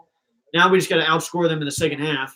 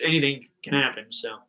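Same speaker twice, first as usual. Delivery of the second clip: choking on a cough mid-sentence; fighting a choke in the throat; 3 dB quieter than usual. Real, not acted. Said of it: "Sorry, I'm choking".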